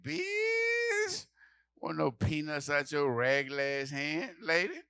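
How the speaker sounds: sassy refusal; hammed-up disgust; disgusted retort.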